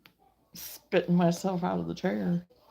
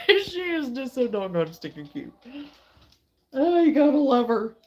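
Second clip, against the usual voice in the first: gushing; 2 semitones higher, 5 dB louder than usual. Real, not acted. Gushing over dog.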